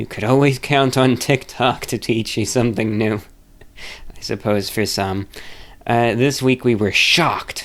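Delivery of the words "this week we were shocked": heavy, italic-like emphasis on the word shocked. Reading a word that is in italics aloud: emphasis on shocked. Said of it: "I say it with emphasis because it's in italics".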